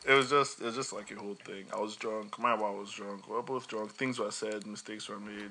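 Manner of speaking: mock excuse.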